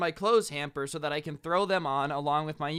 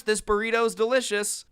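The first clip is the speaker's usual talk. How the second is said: mocking uncaring boyfriend; 2 semitones higher, 4 dB louder than usual. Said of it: "He's like".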